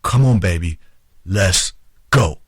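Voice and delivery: put-on firm "Come on, baby", pause, then "let's go"; direct, emphatic plea. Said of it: "you make a direct plea to your man".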